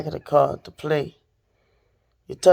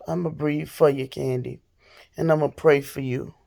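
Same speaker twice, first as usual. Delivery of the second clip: calming down; 3 semitones lower, 5 dB quieter than usual. Real, not acted. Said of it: "I feel a little calmer".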